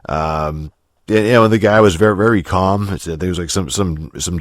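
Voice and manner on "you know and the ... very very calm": normal talking voice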